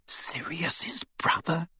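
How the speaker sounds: slow, hushed whisper. A narrator's reading. Hermione realises who R A B was, whispering. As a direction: whisper the question in astonishment. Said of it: "she whispered".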